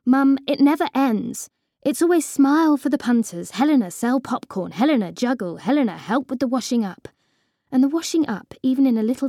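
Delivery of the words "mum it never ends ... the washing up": raised, higher, exasperated protest; whining complaint.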